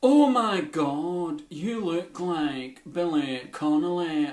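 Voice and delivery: Billy Connolly done camp. Retold or imitated. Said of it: "my Billy Connolly turned out to be quite camp".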